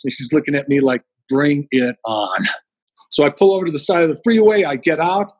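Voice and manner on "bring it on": defiant drawl. Retold or imitated. Defiant daughter's look voiced.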